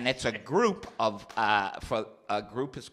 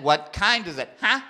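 louder, higher repeated shout; louder shouted question; 11 semitones higher, 10 dB louder than usual. Retold or imitated. Nephew repeating the question to a deaf aunt, louder. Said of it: "I said".

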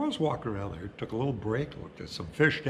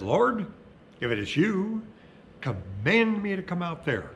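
calling out; 7 semitones higher, 6 dB louder than usual. Acted. Peter calling across the water.

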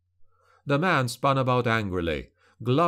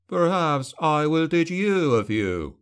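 slow, raised, hostile threat; dripping hostility; 5 semitones higher than usual. A narrator's reading. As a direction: threaten slowly, relishing each word. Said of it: "Anton's voice dripped with hostility".

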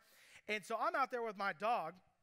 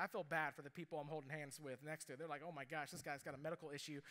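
quiet aside; 6 semitones lower, 7 dB quieter, faster than usual. Retold or imitated. Nervous aside in story.

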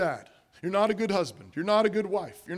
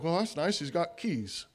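unimpressed shrug; 4 semitones lower, 6 dB quieter than usual. Retold or imitated. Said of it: "you read that and be like".

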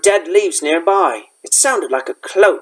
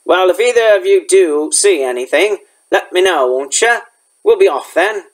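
lightly voiced rustic gamekeeper; a hint of a folksy, dialect-speaking gamekeeper; Hagrid.

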